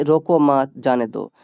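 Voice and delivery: रोको मत, then a clear break before जाने दो; pause after मत. Shown as a demonstration. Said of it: "इसमें भी विराम चिन्ह चाहिए".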